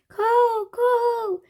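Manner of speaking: high, loud cooing call; thankful bird call. A narrator's reading. Raven calling out thanks to Annie. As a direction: coo it out like a grateful bird. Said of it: "he called, as if thanking her".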